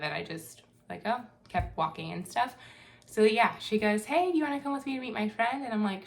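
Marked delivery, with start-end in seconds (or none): 4.0-5.6 lightly imitated youth, higher and quick; a quick, higher-pitched mock invite; youth's invitation. Youth inviting a newcomer to meet a friend, lightly imitated.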